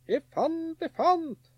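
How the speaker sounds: high, loud gleeful calling out; boy shouting out his find in delight; excited shout. A narrator's reading. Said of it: "ropte han".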